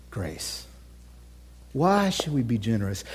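unvoiced, intimate whisper; whispered question to the congregation. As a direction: breathe the question.

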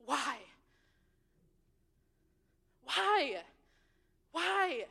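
grieving cries of why, fading; anguished plea. Acted. Crying out to God in grief.

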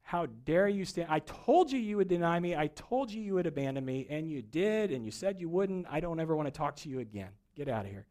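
hammed-up scolding that tails away; mock scolding. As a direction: imitate an indignant telling-off, easing off at the end. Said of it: "scold him, and he did not say".

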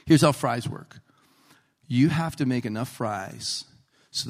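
mock-grave boss explaining the rules; imitating a very serious manager. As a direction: lay it out in measured, earnest pieces. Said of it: "He was so serious".

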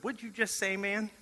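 high, soft disbelief; hushed and high, as if he misheard; stunned question. Retold or imitated. To Mark asking to learn to read, stunned and hushed.

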